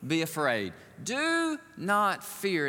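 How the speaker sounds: slow, gentle mock-angel comfort; reassuring angel. Angel calming the startled Mary, slow and reassuring. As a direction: soothe a frightened girl slowly. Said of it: "the angel had to say these words".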